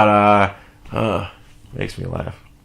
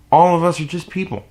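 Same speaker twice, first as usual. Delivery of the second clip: higher, firmer restatement; 6 semitones higher than usual. Real, not acted. Follows the whispered line.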